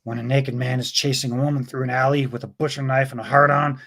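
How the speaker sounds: lightly voiced movie detective; understated deadpan cop impression; mild amateur tough-cop delivery; Dirty Harry. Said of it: "Dirty Harry accent".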